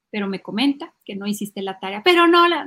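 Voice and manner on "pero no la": loud, high mock child objection; protesta infantil. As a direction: cut in like a protesting kid. Niño insiste protestando. (niño que protesta, fingido)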